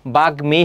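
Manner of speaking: বাগ্মী said "bag-mi", m kept; ম fully sounded. Shown as a demonstration. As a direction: keep the ম audible in বাগ্মী. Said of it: "উচ্চারণ অবিকৃত".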